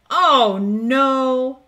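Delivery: a little gasp of worry; dismayed cry. Acted. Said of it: "cries Emma".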